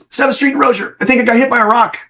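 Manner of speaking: high, bewildered report; dazed boss. Retold or imitated. Shot boss radioing in, high dazed voice. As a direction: sound stunned and unsure.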